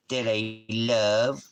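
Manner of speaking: drawn-out, slow "that I love"; slow doting coo. Shown as a demonstration. Owner drawing out "that I love" slowly to his dog. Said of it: "repeated line, slower and higher".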